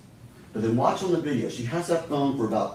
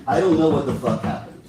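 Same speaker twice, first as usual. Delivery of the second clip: repeated raised quote; 2 semitones higher, 5 dB louder than usual. Retold or imitated.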